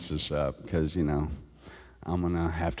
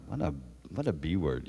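muttered insult; 4 semitones lower, 8 dB quieter than usual. Retold or imitated. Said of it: "I listen to this all the time, like".

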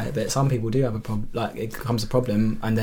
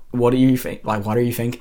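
put-on hesitant stab at a Scottish accent; lightly attempted Scottish accent; failed Scottish accent. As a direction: attempt Scottish and not quite manage it. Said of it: "I can't do Scottish".

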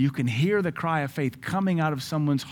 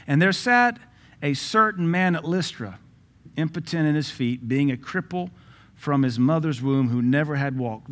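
preaching scripture. Acted. Preacher reading Acts aloud to the church, full force. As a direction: proclaim the verse to the congregation.

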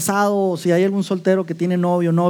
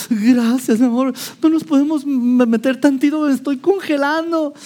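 higher, shivering plea to go inside; wife pleads with husband to go inside, higher and shivering; freezing wife; 5 semitones higher than usual. Pretend. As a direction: beg sweetly while freezing.

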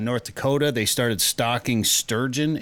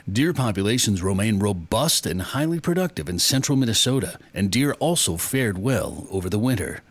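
lightly put-on official agency report voice; DNR voice. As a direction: read it out like a mock government bulletin. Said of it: "That's my D N R voice".

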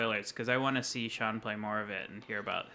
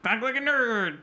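high nasal nerd voice, louder; 11 semitones higher, 6 dB louder than usual. Shown as a demonstration. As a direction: put on a throaty, nasally nerd voice. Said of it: "throaty, nasally nerd, nerd voice".

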